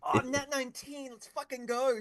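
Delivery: loud, high cheer over the roll; excited cheer. Real, not acted. Player cheering a natural nineteen, loud and excited. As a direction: celebrate the dice, loud.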